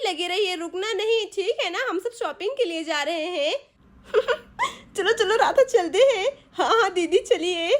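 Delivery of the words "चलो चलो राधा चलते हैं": laughing. Acted. Wife leaving for shopping while the men suffer, laughing. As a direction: leave them cheerfully mocking.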